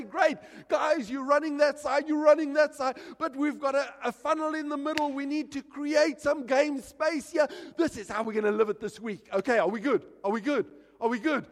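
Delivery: rally the troops, urgent and loud; coach's team talk. Acted. Pastor to his troops at the halftime break, rallying shout.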